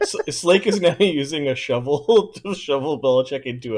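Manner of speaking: words broken by real laughter; laughing while talking. Real, not acted. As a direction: laugh through the line. Laughs through the description.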